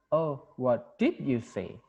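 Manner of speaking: "did" stressed, slow and falling at the end; slow falling question. Shown as a demonstration. Teacher demonstrating a falling question, "did" stressed. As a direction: stretch "Oh, what did you say?" slowly, weight on "did", falling. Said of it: "Penekanannya juga beda".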